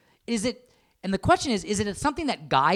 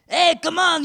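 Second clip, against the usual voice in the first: high, loud mock-French outburst; exasperated Napoleon with a dubious French accent; 11 semitones higher, 7 dB louder, slower than usual. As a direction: put on a bad French Napoleon voice, loudly. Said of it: "That's my French thing".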